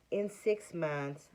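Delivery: slow, measured commercial-doctor voice; lightly done calm TV-ad doctor; Clear Eyes guy. Retold or imitated. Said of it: "he talks like the, the Clear Eyes guy".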